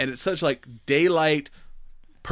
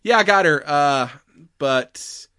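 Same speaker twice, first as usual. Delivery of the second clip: matter-of-fact; 2 semitones higher than usual. Retold or imitated. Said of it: "just so matter of fact about it".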